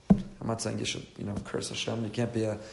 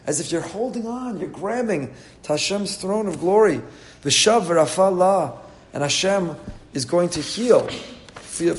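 higher, louder fervent preaching; impassioned preaching; 4 semitones higher, 6 dB louder than usual. Acted. Rabbi urging the lonely listener to pour out his soul, fervent preaching. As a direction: cry out the verses, slowing to stress them.

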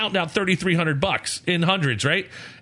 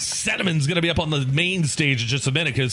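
strip club DJ. Retold or imitated. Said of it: "the Gentleman's Club D J voice".

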